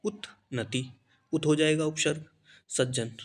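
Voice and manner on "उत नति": उत नति said as two separate parts, उत then नति; उत नति with a clear gap between parts; split into parts. Shown as a demonstration. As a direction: break उन्नति apart as उत and नति. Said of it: "एक बार को देखो".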